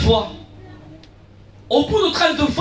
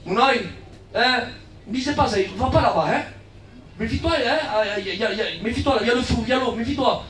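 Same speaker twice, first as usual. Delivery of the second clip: quiet, softer parent's caution; soft warning to child; 3 semitones lower, 5 dB quieter, faster than usual. Retold or imitated. Parent quietly warning a child about danger. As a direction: gently warn the child off. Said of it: "C'est comme vous à vos enfants".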